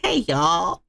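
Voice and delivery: a light Southern accent, imitated as a greeting; mock southern accent. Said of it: "she's gonna be with the same accent".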